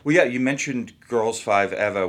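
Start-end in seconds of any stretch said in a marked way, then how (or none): 1.1-2.1 Boston accent. Shown as a demonstration. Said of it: "impossible for me to not say that in a Boston accent".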